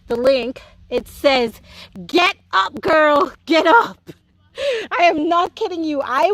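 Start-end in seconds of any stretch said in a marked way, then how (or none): 2.1-4.1 higher, punchy rousing call; imitated urgent command. Video telling a wallowing woman to rise, urgent higher call. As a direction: rouse someone out of bed, quoting.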